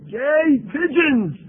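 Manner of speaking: sarcastic gasp of disbelief; mock astonishment. Real, not acted. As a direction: slowly exaggerate the shock. Mocking scientists' gay pigeon finding.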